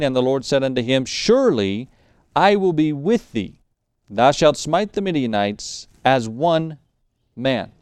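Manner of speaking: emphatic, measured Bible reading; scripture reading. Acted. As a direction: proclaim the verse with weight and deliberate pauses. Reads the verse aloud.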